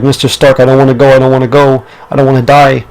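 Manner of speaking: quick, frightened begging, lightly voiced; scared pleading. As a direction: rush the words like a scared kid begging not to go. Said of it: "he was scared".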